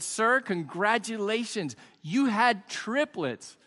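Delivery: lightly acted nurse, slow and drawn out; congratulatory nurse. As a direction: stretch the good news for the joke. Nurse announcing births in a joke.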